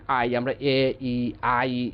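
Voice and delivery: আই broken into এ, ই, then glided back as আই; diphthong split demo. Shown as a demonstration. Teacher to students, showing the wrong diphthong: a slow split demo. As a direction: split the আই diphthong into two sounds. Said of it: "এইভাবে উচ্চারণ করি".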